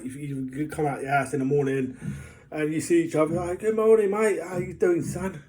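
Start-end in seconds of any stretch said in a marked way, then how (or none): 3.6-5.4 bright, loud, high hello to a neighbour; greeting a neighbour on the street, loud and cheery. Retold or imitated. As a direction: call out a hearty good morning.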